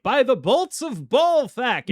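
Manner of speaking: high, slow booming incantation; yelled spell. Retold or imitated. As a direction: bellow it like a wizard casting. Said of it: "you yell something like".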